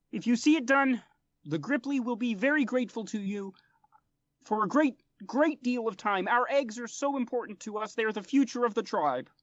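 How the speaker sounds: high, earnest little frog-man voice, pitched well up; a small amphibian diplomat pleading politely; frog folk interpreter. Acted.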